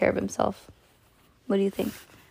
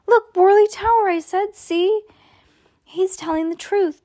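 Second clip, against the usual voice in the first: excited; 13 semitones higher, 4 dB louder than usual. Acted. Melody excited at finding proof.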